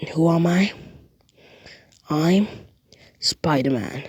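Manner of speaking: whispered reveal; dramatic whisper. Acted. Narrator revealing the hero's identity, dramatic whisper. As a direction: breathe the name like a secret.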